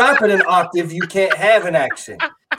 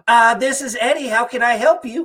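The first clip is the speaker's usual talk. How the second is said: higher, polite customer-service voice; phone voice; 6 semitones higher than usual. Retold or imitated. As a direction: pitch it up for the phone. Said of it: "Goes up an octave".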